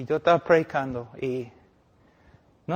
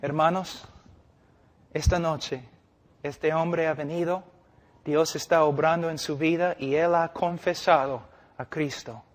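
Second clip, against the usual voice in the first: calm pastoral announcement. Shown as a demonstration. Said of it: "Es mejor decir".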